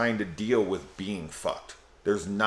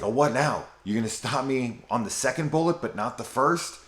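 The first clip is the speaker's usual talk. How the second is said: higher-pitched, taunting retold quote; mock challenge; 6 semitones higher than usual. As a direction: imitate him daring the other man, pitched up. Retelling character challenging another man.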